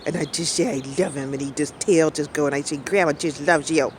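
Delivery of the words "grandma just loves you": doggy voice. Retold or imitated. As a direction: coo it like you're talking to a good boy. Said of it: "I'm doing my doggy voice".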